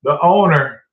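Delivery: firm announcement. Retold or imitated. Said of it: "Here we go again".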